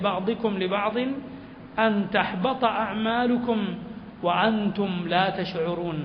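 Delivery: slow, measured chanted recitation of the verse; slow tajweed-style chanting; Quran recitation. Acted. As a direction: intone the Arabic verse with reverent care.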